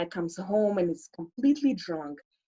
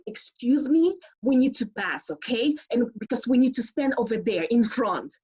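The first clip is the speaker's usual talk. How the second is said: put-on village girl; 4 semitones higher than usual. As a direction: push through the crowd like a village girl. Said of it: "village girl".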